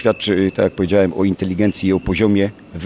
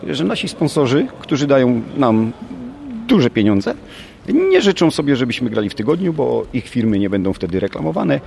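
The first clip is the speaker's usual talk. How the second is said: mildly scornful retort, pitch often jumping up; mocking; 3 semitones higher than usual. Real, not acted. Coach answering accusations over the match date, mildly mocking. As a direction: push back with a touch of mockery, stressing each point. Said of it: "to ja też zaszydzę i powiem tak".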